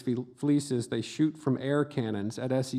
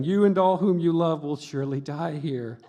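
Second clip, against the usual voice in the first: mock doom warning; 3 semitones higher, 4 dB louder than usual. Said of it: "the dog was saying".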